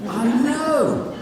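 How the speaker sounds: high loud exasperated reply. Acted. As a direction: moan it, fed up. Exasperated agreement.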